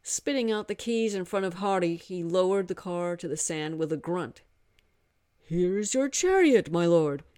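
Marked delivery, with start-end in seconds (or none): 5.4-7.2 a devoted monkey god bursting with joy; eager monkey god. Acted. Hanuman voiced by narrator.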